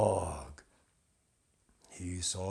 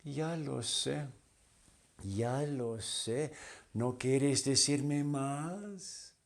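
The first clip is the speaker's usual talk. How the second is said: soft, higher teasing reply; coy butterfly; 4 semitones higher, 3 dB quieter than usual. Acted. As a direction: answer sweetly, a little coy. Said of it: "She answered him like this".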